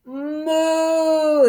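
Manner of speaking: gentle demo moo; cow moo. Shown as a demonstration. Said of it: "Can you moo like a cow?".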